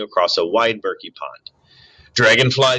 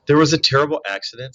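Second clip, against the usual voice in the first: cheerful; 4 dB louder, faster than usual. Acted. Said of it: "why does your voice sound so cheerful".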